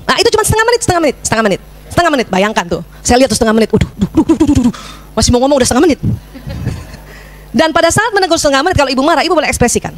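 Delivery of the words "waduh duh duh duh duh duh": imitated clock ticking. Imitating the clock's seconds running.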